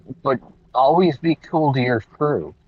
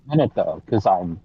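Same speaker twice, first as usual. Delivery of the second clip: muffled; 5 semitones higher, much faster than usual. Real, not acted. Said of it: "you're maybe muffled in a car".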